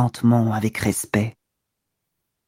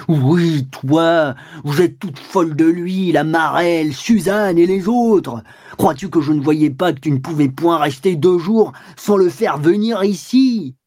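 bellowing; 3 semitones higher, slower than usual. Acted. Walter bellowing at his wife, furious. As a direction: roar it right into her face. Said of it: "Il lui vociféra dans le nez".

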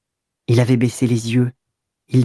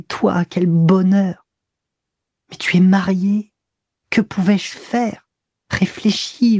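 soft seductive voice; 5 semitones higher than usual. Acted. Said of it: "Il parlait de sa voix douce, voilée, séduisante".

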